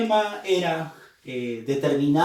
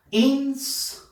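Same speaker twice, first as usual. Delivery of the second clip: "Inspector" in separate pieces, "Ins, pec, tor"; syllable by syllable; 9 semitones higher than usual. Shown as a demonstration. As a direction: sound out "Inspector" slowly with pauses between syllables. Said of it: "debemos silabear".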